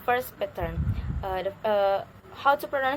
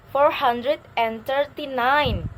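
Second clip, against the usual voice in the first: slow and loud, "nine" lifted and stretched; last-word intonation; 2 semitones higher, 5 dB louder, slower than usual. Shown as a demonstration. Teacher modelling a long number slowly, stressing "nine". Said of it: "intonation is rising in the last".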